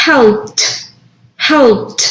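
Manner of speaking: "Helped" ending in a short T with no extra syllable, said as "helpt". Shown as a demonstration. Teacher demonstrating the T ending to the class, deliberately. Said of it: "va a pronunciar ese ed con T".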